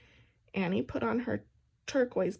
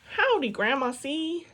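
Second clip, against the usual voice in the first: louder greeting; called out; 4 semitones higher, 5 dB louder than usual. A narrator's reading. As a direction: call out while sitting at the piano. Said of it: "Annie called out".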